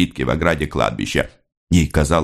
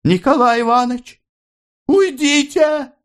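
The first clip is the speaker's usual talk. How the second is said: frightened cry. A narrator's reading. Mother shouts to Nikolai to get away, very high cry. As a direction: scream a warning at him. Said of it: "закричала она".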